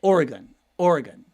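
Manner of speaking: Oregon repeated as OR-uh-gun, checking it; Oregon twice as OR-uh-gun; practising Oregon. Shown as a demonstration. Host checking his Oregon with a fan. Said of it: "is that right?".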